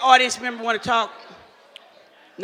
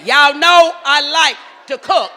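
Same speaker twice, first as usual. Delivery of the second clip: slow, loud and higher insistence; 1 emphatic call to crowd; 5 semitones higher, 8 dB louder, slower than usual. Real, not acted. Host repeats herself loudly to get the crowd's attention.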